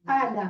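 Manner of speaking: اعلیٰ with a clear throat ain at the start; correct Arabic ain. Shown as a demonstration. Teacher repeating the correct اعلیٰ with ain for students. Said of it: "حمزہ پھر عین".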